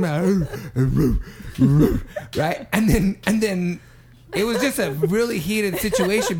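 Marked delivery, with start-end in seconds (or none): 0.5-2.3 mock dog bark; comic growly "roo" barks in retelling; imitated barking. Cab driver barking back at the man, imitated barks. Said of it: "started barking back to him".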